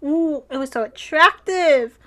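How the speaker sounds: whispery, airy gush; swooning. Real, not acted. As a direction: sigh it out in smitten admiration. Swooning over his yelling.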